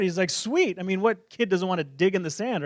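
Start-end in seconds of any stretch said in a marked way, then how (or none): 0.3-0.8 higher-pitched retold kid's delight; excited kid. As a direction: act out a thrilled little boy. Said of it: "super excited".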